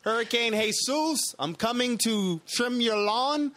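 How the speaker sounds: hammed-up Hispanic accent, pitched high; a hurricane announcing itself in mock Hispanic accent; uncertain Hispanic accent. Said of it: "what kind of accent that was".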